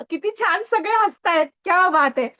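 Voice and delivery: high-pitched, amused delight; pleased, lifted exclamation. Real, not acted. Delighted that everyone is laughing.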